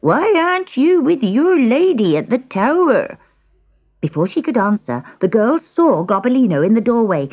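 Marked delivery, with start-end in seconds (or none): 0.0-3.2 put-on high shout of an old man. A narrator's reading. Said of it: "shouted the old man".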